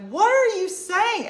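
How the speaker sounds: high, loud, drawn-out mock outburst; sister's shocked yell. Retelling sister Michelle's reaction to the yelling, high loud mock protest. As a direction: imitate an appalled sister shouting. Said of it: "my sister Michelle was like".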